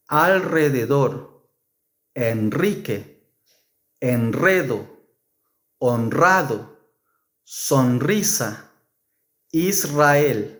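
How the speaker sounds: alrededor, Enrique, honrado with a trilled r; rolled r. Shown as a demonstration. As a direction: roll the r after l, n or s. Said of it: "the strong R is pronounced".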